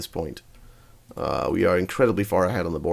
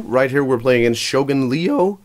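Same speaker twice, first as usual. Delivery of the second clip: voice cracking; 3 semitones higher than usual. Real, not acted. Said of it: "my voice cracked there".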